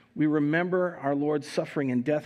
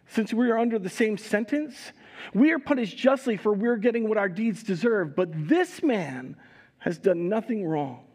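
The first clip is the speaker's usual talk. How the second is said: raised-pitch, insistent reproach; rebuking; 5 semitones higher than usual. Acted. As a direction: press the rebuke, then draw out the contrast. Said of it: "the other criminal rebuked him".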